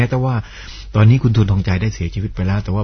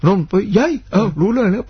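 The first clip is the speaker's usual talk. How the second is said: rapid clipped southern Thai shouting between trains; fast southern Thai; 11 semitones higher than usual. Retold or imitated. Host acts out southern Thai travellers shouting between passing trains. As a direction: fire off short southern Thai phrases, higher. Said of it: "รถไฟวิ่งสวนกันเนี่ยพูดรู้เรื่อง".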